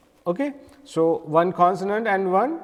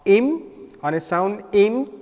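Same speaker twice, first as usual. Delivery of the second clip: IM struck a little louder; stressed syllable; 3 semitones higher, 3 dB louder than usual. Shown as a demonstration. Teacher showing pupils where the accent falls, stressed IM. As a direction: lean on the sound im. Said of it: "a little strike on a word".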